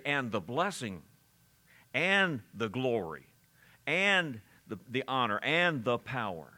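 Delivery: "And" set apart, a pause after each phrase; stopping between items. Shown as a demonstration. Preacher showing how the verse makes you stop, pausing between items. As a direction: halt after "blessing" and "glory", letting each item stand. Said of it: "It makes you stop".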